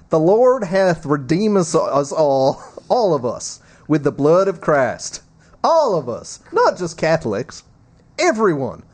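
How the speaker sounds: lightly performed papal sermon voice; Pope Francis. Acted. Co-host reads the Pope's homily aloud, lightly performed preacherly voice.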